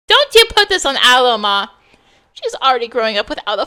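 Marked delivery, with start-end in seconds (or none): 0.1-1.7 loud, sharp pushback; heated, louder warning to her mother; angry retort. Acted. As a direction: snap back in defence of her daughter. Heated quarrel between mother and daughter.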